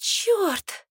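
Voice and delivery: high, startled "damn"; shocked exclamation. A narrator's reading. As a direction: exclaim in sudden dismay. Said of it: "потрясённо воскликнула она".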